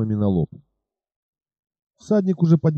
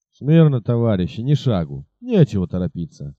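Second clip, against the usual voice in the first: commanding; 2 semitones lower than usual. Acted. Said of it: "командовал тот".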